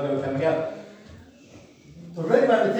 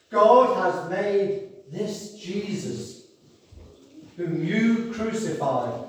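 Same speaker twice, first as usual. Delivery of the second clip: slow, weighty Bible reading; solemn scripture reading; slower than usual. Acted. Preacher reading scripture to the congregation, slow and solemn. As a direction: read the verse with solemn pauses.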